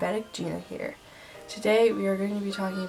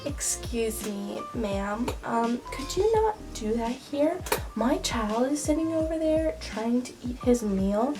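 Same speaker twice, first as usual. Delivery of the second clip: snooty Karen; 3 semitones higher than usual. Acted. Karen complains in restaurant.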